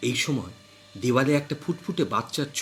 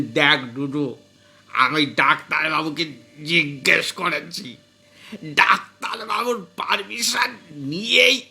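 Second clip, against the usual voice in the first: explaining manner; slower than usual. Acted. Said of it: "শ্বশুর মশাই বোঝানোর ভঙ্গিতে বললেন".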